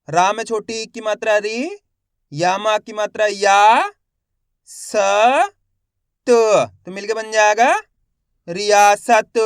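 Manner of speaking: teacher's measured drill ending on a loud रियासत; letter-by-letter sounding out. Shown as a demonstration. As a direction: spell it out syllable by syllable, stretching या. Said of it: "एक ही अक्षर की पहचान करो, उनका उच्चारण करो".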